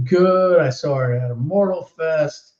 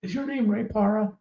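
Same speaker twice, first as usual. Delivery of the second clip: put-on excited kid; 8 semitones higher, 5 dB quieter than usual. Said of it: "he's, like, out of breath".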